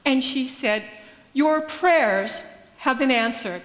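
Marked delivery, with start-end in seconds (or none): 1.3-3.6 slow, louder, certain pronouncement; matter of fact. Retold or imitated. Nigerian grandmother to the pastor, calm certain declaration. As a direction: say it as settled truth, no room for doubt. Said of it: "spoken as a matter of fact".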